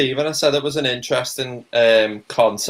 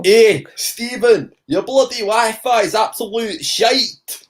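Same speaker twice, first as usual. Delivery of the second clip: drawn-out mock complaint to the frozen screen; calling out; 8 semitones higher, slower than usual. Real, not acted.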